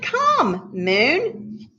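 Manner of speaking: high, sing-out summons; calling out to creation. Acted. God summons the moon, high sing-out call.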